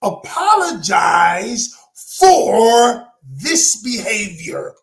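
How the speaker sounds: mean every word, slowly; slow sincere apology. Shown as a demonstration. Coaching Donna how to apologize to her sister, slow and sincere. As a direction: stretch out apologize for this, heartfelt. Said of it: "first thing you do is you say".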